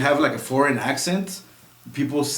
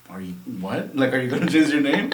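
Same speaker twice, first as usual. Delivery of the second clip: puzzled. Retold or imitated. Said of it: "his face was, like, puzzled".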